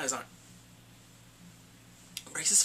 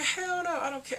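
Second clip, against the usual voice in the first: mock defiant shout; 12 semitones higher than usual. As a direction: shout it like a father protecting his kid. Retelling father's defiant outburst.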